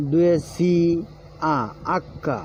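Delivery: আক্কা with a doubled, held k, as in Italian acca; Italian letter name. Shown as a demonstration. Teacher shows Bengali learners the Italian letter আক্কা, said with a doubled k. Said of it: "Italian উচ্চারণ".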